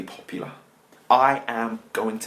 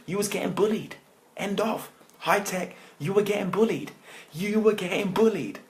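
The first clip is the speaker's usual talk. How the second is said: much higher, emphatic repeats; high-pitched insistence; 11 semitones higher than usual. Real, not acted. Telling viewers about the wrong trainers, high-pitched insistence. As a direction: voice jumps up to hammer it home.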